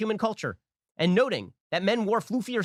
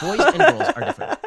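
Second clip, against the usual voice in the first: much higher and louder, shouting it out; shouted declaration; 11 semitones higher, 9 dB louder than usual. Real, not acted. Host declaring his core point to the audience at full force. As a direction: bellow the claim at full force.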